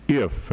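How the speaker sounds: IF set apart for emphasis; stress on IF. Real, not acted. Commentator flags a condition about the Speaker, IF stressed. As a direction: lean firmly on the word "if". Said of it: "I emphasize the word if".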